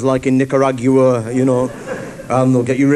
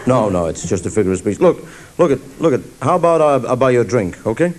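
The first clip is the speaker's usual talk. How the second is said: lower, put-out smooth talker; lightly voiced smoothie; 3 semitones lower than usual. Cowboy thrown by the girl's answer, lightly lowered smooth voice. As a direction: stall like a deflated charmer. Man recovers.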